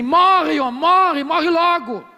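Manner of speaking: nagging wife telling Job to die; mock scornful wife.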